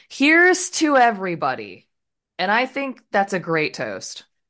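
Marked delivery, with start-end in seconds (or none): 0.2-1.9 high, swooping, shouted yell to a whole room. Retelling a film scene where a minion gives a toast: imitating someone yelling. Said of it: "and he just yells".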